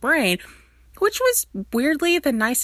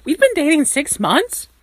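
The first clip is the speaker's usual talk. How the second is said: aghast whisper; stunned whisper; 7 semitones higher, 5 dB louder than usual. Acted. Stiles realising he's been dating Derek, aghast whisper. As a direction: breathe it out in disbelief. Stunned at six-month revelation.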